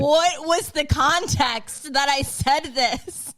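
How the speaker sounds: incredulous questioning. Retold or imitated. Wife demanding context from husband, incredulous.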